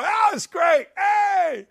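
high shouted mock cheer. Mocking the crowd's forced cheering at the woman's act, high shouted fake delight. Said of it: "we're all supposed to go".

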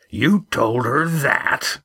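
slow, stunned question; can't believe the boy said it; incredulous. A narrator's reading. Skipper stunned by what the boy told her. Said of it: "Roaring Jack was incredulous".

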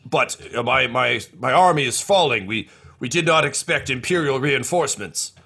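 flustered leader of a falling army; Two Two Cups fretting. Acted. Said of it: "and he says".

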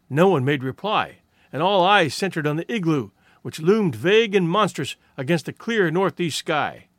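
plain reading voice

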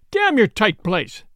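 slow, emphatic curse; mildly heated outburst, drawn out; defiant cry. Acted. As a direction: fling the words back at the sheriff. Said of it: "cried the young man".

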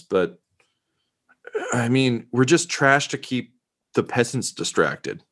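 halting, lightly voiced reporter giving up the pretence; self-deprecating reporter. Reporter admitting the truth about the network to an officer, halting and deflated. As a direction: start loyal, stumble, then concede.

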